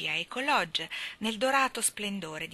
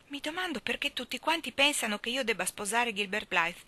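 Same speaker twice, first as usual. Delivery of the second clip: resentful; 5 semitones higher than usual. Acted. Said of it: "con accento risentito".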